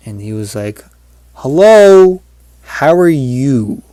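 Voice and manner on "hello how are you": loud, drawn-out cartoonish greeting, pitched up at first; big stretched-out greeting from an upright dog; talking dream dog. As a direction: boom a slow hello as a talking dog. Dog talks in retold dream.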